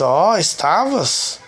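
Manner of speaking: drawn-out, slow "oh, were you?" in imitation; mild retold surprise. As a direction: imitate a mother's slow, wondering reaction. Mother reacts to news of vision. (surpresa leve, imitada, arrastada)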